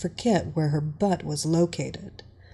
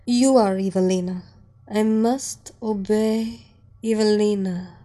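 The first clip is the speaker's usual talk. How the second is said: entranced reply; 3 dB louder than usual. Acted. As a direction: answer as if in a trance. Hypnotised doctor answers mistress.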